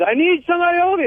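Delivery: mock very high, dramatic movie-style yell. Retelling arriving at the hospital for the birth, the speaker reenacts yelling like the movies. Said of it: "I start yelling like the movies".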